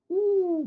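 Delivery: high, drawn-out ooh; a long, high-pitched ooh of puzzlement; stumped "ooh". Acted. Teacher acting out meeting an unknown chemistry word, stumped ooh.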